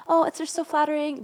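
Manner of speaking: put-on high, lilting Irish accent, playfully coy; mock-flattered in a light Irish accent. Podcaster keeps the actress's Irish accent, flattered. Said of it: "in her little Irish accent".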